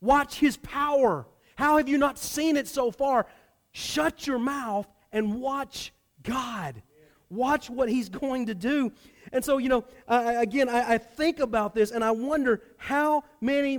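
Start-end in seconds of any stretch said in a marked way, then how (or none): 0.0-8.9 frustrated Moses. Retold or imitated. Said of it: "hear the frustration in the words of Moses".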